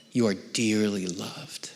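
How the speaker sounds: slow whispered assurance. Real, not acted. Preacher telling the doubting, whispered and slow. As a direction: breathe it like a secret blessing. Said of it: "preaching intimately".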